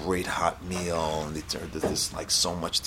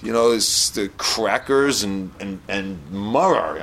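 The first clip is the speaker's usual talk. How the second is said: indignant complaint, a bit louder; hungry beggar berating his friend, half-hearted yell; mild mock scream; 3 semitones higher, 4 dB louder than usual. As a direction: scold the friend who tricked him. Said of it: "starts screaming at him".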